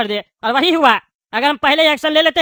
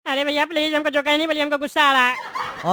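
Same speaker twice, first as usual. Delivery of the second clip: meek pleading anger. Acted. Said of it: "बड़ा ही ठंडा गुस्सा... गिड़गिड़ा रहा है?".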